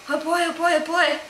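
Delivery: high, eager little cat voice; excited pet voice; voicing the excited cat. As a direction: play the greedy cat begging for tuna. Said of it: "He's like".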